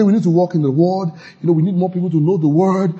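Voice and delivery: even, reasonable church member suggesting improvement; measured correction. Shown as a demonstration. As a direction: offer criticism in a measured way. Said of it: "you can talk in a measured way".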